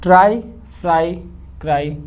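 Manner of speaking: ट्राई फ्राई क्राई read one by one, with pauses; reading aloud. Shown as a demonstration. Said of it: "आप इसको पढ़िए".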